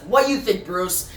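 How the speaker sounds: mild mock meltdown. Jason throws his helmet and confronts Bruce in a mild mock meltdown. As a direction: lightly act Jason losing it. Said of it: "He starts having a meltdown".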